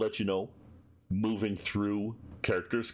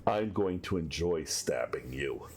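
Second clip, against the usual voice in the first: menacing thug; 3 semitones lower, slower than usual. Acted. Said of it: "he goes".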